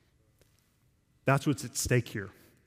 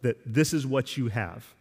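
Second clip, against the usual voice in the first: confident. Shown as a demonstration. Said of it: "You hear how confident he is of that?".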